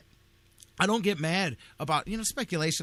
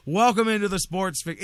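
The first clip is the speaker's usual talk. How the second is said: louder, punchy radio-host welcome; loud announcer welcome; 4 semitones higher, 5 dB louder than usual. Real, not acted. Radio host kicking off the show, louder announcer welcome. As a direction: hit the show name like a big opener. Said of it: "I did not wanna do that".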